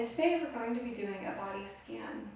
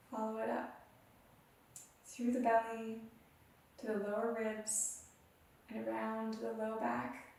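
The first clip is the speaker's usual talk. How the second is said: soothing meditation teacher voice; guided meditation. Acted. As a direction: lead the listener gently through the body. Guided body scan meditation.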